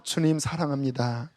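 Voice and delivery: quiet, hushed prayer; soft whisper. Shown as a demonstration. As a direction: murmur it gently to the Lord. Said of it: "속삭여도 돼요". (조용히 속삭이는 기도)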